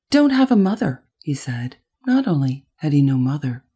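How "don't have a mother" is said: high, loud dismissive retort; defiant. A narrator's reading. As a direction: blurt it out defiantly, pitched up. Boy dismissing mothers in story.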